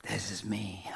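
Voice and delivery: secret whisper of the self; hushed, mocking whisper of the proud self. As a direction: whisper it like a confession. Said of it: "Because we are proud of this one".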